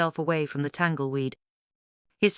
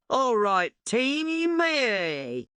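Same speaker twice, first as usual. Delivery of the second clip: high, bright rallying turtle; rallying call; 8 semitones higher, much slower than usual. A narrator's reading. Terence rallying his friends one morning, high and eager. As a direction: call the team together with a lift.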